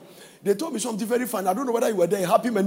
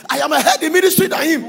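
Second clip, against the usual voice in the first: fast, mocking quote; mock pastor boast; 3 semitones higher, 6 dB louder, faster than usual. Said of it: "Yesterday I heard it".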